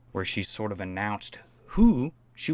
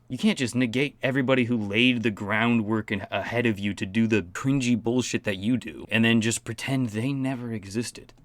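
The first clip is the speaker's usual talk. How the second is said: usual speaking voice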